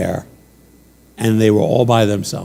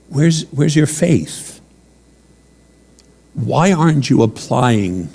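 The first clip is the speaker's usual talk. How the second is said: Jesus gently asking his terrified disciples; gentle voice. Acted. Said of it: "in the most gentle voice".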